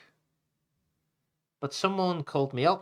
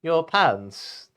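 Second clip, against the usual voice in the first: mock surprise; 4 semitones higher, 5 dB louder than usual. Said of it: "The shark looked quite surprised".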